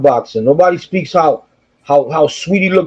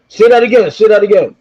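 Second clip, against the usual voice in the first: aggressive demand; 3 semitones higher than usual. Retold or imitated. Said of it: "He came up to me real, like, aggressive".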